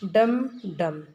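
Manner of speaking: "डम डम" beaten out like a small drum; damru drum imitation. Shown as a demonstration. Teacher acts out the damru sound for the class, punchy "डम डम". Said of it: "अब डमरू की ध्वनि कैसी होती है?".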